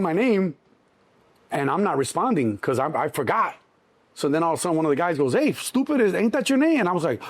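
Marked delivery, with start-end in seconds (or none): 5.3-6.8 higher, taunting guard calling over; mocking guard. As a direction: needle him like a smug guard. Guard mocking him across room.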